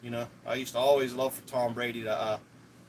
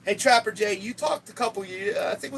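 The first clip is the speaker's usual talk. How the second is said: calling out; 12 semitones higher, 4 dB louder than usual. Real, not acted. Calling out to a viewer.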